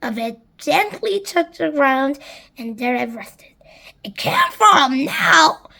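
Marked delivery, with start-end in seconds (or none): 4.0-5.7 high, drawn-out loud cry; slow squawky exclamation; shouted. A narrator's reading. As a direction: shout it slowly, pitched up. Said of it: "as Sponge shouted".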